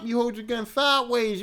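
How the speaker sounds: hyped telling the hood gun story; excited. Real, not acted. Comedian to audience about shooting sideways, hyped and loud.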